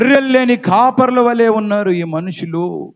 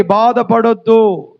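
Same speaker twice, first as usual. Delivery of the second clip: slow reassurance; much slower than usual. Shown as a demonstration. Congregation told to reassure their neighbour, slow and gentle. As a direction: say బాధపడొద్దు slowly and gently. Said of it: "పక్కన వాళ్ళతో చెప్పండి ఒకసారి".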